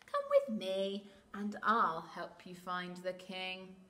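lightly voiced coaxing fox; sly fox. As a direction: lure them in with a hint of slyness. Sly fox lures the birds.

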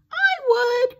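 high, loud creaky little voice; creaky crusty coral. A narrator's reading. Crusty coral volunteering to the hermit crab, high creaky voice. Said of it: "creaked a crusty coral".

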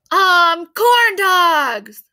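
loud eager shout; mob shouting. A narrator's reading. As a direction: yell it out like a hungry crowd. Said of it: "the mob finally shouted".

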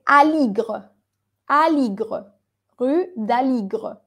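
"Aligre" ending on GR with barely any E; unaccented final E. Shown as a demonstration. Teacher models the street name, final E muted. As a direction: say "Aligre" without a Spanish E at the end. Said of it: "cuando la E no está tildada".

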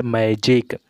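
"मैजिक" with a j sound in the middle; soft G word. Shown as a demonstration. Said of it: "जिस कारण इसका उ".

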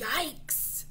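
high, loud mock-frightened yelps; scared yikes. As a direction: yelp in play fright. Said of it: "dragons are so scared".

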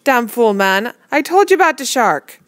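loud, high furious yell; angry yell. A narrator's reading. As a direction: yell at him in a rage. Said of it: "He yelled".

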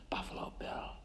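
breathy hush on "Buffalo Bill"; "Buffalo Bill" barely voiced; whisper. Menacing aside about the killer.

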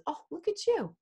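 lightly voiced husband humoring a toddler; a hint of playful baby-talk; retold teasing husband. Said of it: "he says".

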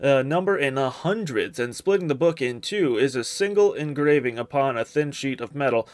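put-on lightly dramatic read-aloud of an eerie old text; measured storybook narration with a touch of drama. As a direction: read the found manuscript out like a narrator. Reads game book text aloud.

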